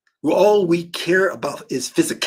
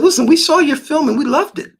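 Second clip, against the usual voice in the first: excited studio; 11 semitones higher, 4 dB louder than usual. Retold or imitated. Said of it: "They said".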